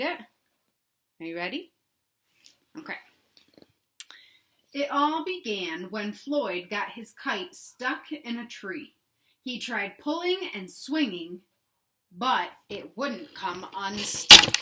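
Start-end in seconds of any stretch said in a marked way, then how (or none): 4.7-14.5 slow storybook read with a hushed start; reading to children. A narrator's reading. Teacher reading a picture book to kids, slow storybook voice. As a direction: read it slowly to the class, drawing them in.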